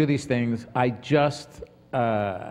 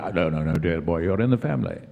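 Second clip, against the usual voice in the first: theatrical elder-actor impression, dropping low at first; lightly imitated stage-actor reassurance; Patrick Stewart; 5 semitones lower than usual. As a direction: dismiss the worry grandly and fondly. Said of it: "and Patrick said".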